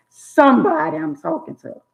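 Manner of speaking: high preaching exclamation; preacher's high call. Real, not acted. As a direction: cry it out to the room. Preacher calling out to crowd.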